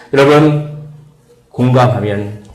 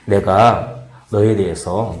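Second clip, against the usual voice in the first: gentle offer; 4 semitones lower, slower than usual. Pretend. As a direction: offer help tenderly. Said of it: "라고 하는 언어로 바꾸면".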